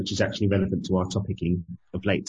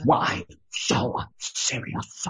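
slow breathy menacing Joker; Joker impression; 3 semitones higher, much slower than usual. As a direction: drawl it like Heath Ledger's Joker. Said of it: "Heath Ledger Joker".

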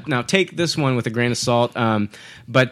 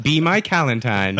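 laughing. Acted. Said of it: "playful valentine pun".

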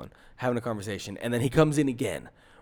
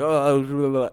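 imitated babbling; 5 dB louder than usual. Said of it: "I don't remember what he said".

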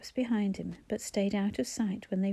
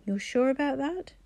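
menacing; 5 semitones higher, 3 dB louder than usual. A narrator's reading. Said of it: "His tone implied he might reach for a shotgun".

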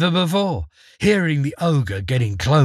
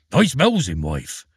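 protesting ogre. Acted. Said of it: "protested the ogre".

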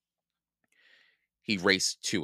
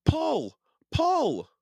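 high, loud egging on; urgent cry; 4 dB louder than usual. A narrator's reading. Jack urging Annie out of mud, crying out. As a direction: cry each word out, pitched way up. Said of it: "cried Jack".

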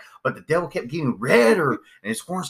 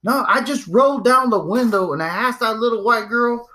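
dad retelling; 7 semitones higher than usual. Retold or imitated. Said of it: "It's like".

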